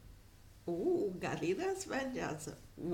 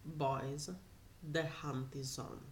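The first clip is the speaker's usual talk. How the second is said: low menacing announcement; 5 semitones lower, 7 dB quieter, slower than usual. Acted. Bounty hunter announces.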